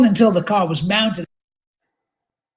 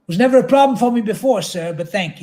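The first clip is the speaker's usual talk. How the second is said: quick, higher and louder retort, then a curt thanks; combative; 5 semitones higher, 4 dB louder than usual. Acted. Narrator to the trooper, answering back with a combative edge. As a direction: bristle back at him, fast and pointed. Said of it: "I heard my combative tone".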